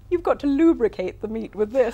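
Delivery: loud, laughing through the words; laughing quote. Retold or imitated. Host laughing while quoting Dar's on-air slip. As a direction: laugh as you repeat his blunder.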